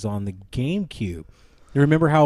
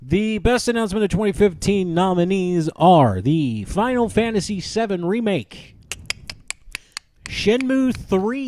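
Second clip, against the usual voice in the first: fighting game announcer; 4 semitones higher than usual. Pretend. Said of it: "I have to give my best announcer voice".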